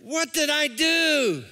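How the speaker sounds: drawn-out wail of regret; hammed-up lament; mock remorse. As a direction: wail it slowly like an instantly regretful buyer. Acts out buyer's remorse.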